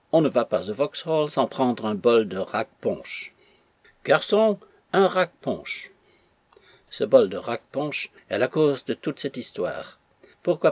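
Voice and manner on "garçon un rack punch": high-pitched call to a waiter. A narrator's reading. Joe calls the waiter for punch, calling out. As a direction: call out the order, drawing out the drink.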